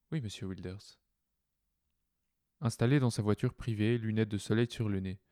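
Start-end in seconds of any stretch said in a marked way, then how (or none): 0.1-1.0 softer synthetic car assistant; chipper text to speech voice. Acted. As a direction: answer like a cheerful car computer. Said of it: "La voix de synthèse de la voiture répondit".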